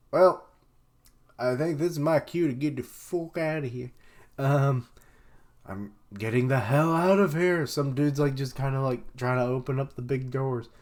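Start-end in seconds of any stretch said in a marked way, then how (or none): 0.1-7.7 high, loud hurried exit line; nervous bail. Retold or imitated. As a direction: say it like you're fleeing. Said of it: "So he's like".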